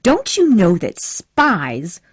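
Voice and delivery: mild anger. Acted. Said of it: "Scarlet was getting angry again".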